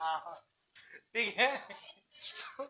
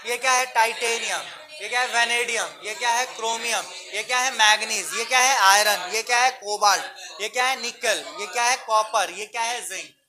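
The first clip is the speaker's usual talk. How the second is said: drilling call; 4 dB louder than usual. Shown as a demonstration. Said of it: "call and response drill".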